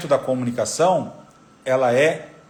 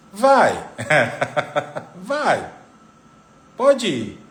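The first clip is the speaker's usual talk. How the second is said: contradictory go-ahead; 3 semitones higher, much slower than usual. Acted. Wife telling husband he can go, meaning the opposite. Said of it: "o gesto e a entonação fala totalmente o contrário".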